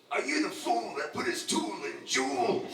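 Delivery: lightly voiced rowdy showman; a rocker's stage opener. A rocker greeting the crowd, light mock teasing. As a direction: tease like a rocker opening a show. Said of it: "That's how he opens his show".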